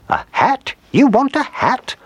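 put-on high, eager old lady guessing; a delighted old woman working it out; surprised old woman. A narrator's reading. Old woman guessing dog's wish.

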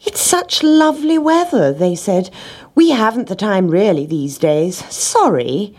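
a hint of lazy pets; lazy animals. Cat and dog make excuses.

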